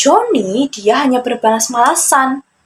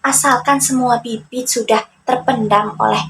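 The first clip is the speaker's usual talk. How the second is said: higher, scoffing character voice; cocky young trickster, brushing it aside; Joni dismissive; 4 semitones higher than usual. Acted. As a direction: wave off the advice.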